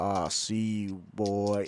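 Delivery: very deep, low devil voice. A game master voices what a player's character hears, in a deep voice. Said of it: "You hear deep in your voice".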